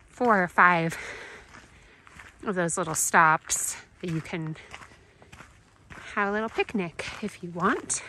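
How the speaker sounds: breathing through the mouth, blocked nose; stuffy nose, short of breath; congested. Real, not acted. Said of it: "Sorry, I'm so out of breath".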